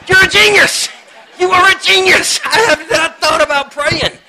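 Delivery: high, loud, put-on voice of mock amazement; sarcastic mock awe. Speaker mocking the friend who suggested prayer, high sarcastic gush. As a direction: gush that they're a genius, dripping sarcasm. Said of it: "I was like".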